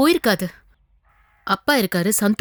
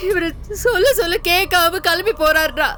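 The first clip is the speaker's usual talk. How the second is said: tearful pleading. Acted. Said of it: "அழாத, அழாதன்னு சொல்றேன்ல".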